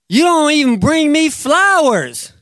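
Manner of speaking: playing the hurt wife; wife's complaint. Pastor voicing wife's complaint.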